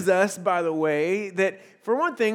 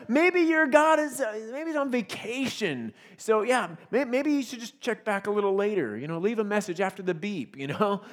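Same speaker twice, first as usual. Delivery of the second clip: mocking. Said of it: "kinda laughing".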